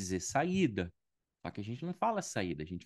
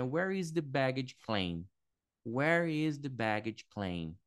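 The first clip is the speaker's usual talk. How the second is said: slow model phrase; slower than usual. Shown as a demonstration. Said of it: "você vai falar assim".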